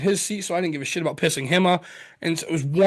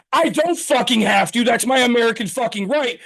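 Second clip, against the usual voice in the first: defiant retold outburst; 6 semitones higher, 4 dB louder than usual. Retelling defiant phone call answer.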